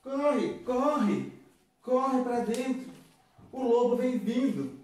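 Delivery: high, panicked warning call; desperate shout. Acted. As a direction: urge them inside in panic. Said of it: "gritou desesperado".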